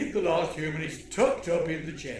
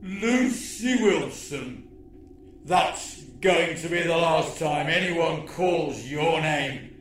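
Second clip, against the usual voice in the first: gloating alien villain. Acted.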